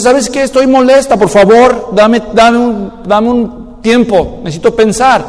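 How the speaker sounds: slow, deliberate request for time; wife asking for time. Acted. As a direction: draw out each request calmly. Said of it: "La esposa nos dice".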